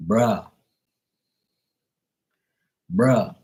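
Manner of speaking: short mock Jamaican "bruh"; playful Jamaican accent. Shown as a demonstration. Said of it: "speaking Jamaican and shit".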